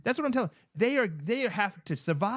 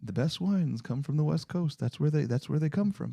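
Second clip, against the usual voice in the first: lower-pitched, lightly voiced Trey repeating the tip; a hint of Trey laying down the rule; Trey impression; 5 semitones lower than usual. Host redoes his Trey impression for cohost, lower voice. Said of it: "That's my Trey impression".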